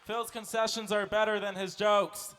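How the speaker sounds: folksy lumberjack character. Acted. Plays lumberjack Phil North in skit.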